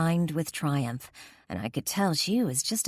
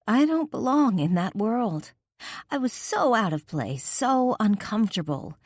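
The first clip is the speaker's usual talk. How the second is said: tearful confession; 6 semitones higher than usual. A narrator's reading.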